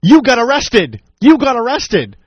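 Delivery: imitating a man yelling, high-pitched; mock yelling. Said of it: "he starts yelling".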